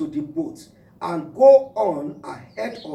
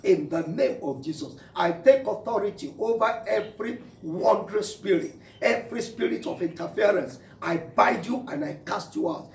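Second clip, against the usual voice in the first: praying aloud in earnest, intoning; fervent prayer. Acted. Pastor praying over his congregation, fervent prayer. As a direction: pray over the congregation with force.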